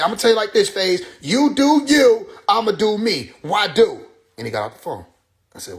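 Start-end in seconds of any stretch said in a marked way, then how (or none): 0.0-4.1 retold friend's parting words, voiced higher. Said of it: "he said".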